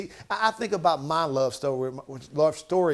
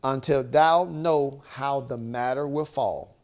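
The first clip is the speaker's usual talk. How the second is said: louder, slow, earnest counsel; a touch of tender advice; 6 dB louder, slower than usual. Retold or imitated. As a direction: lean in and steady her, slowly. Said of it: "she said".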